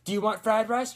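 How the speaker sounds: high, loud mock East Asian accent; exaggerated stereotype East Asian accent; caricatured East Asian accent. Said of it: "differentiate that from just being like".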